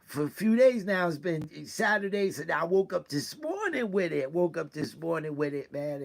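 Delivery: emotional. Real, not acted. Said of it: "please pardon me if I get emotional".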